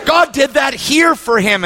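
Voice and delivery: high, slow preaching shout. Real, not acted. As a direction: proclaim it with full force. Preacher proclaims God's work.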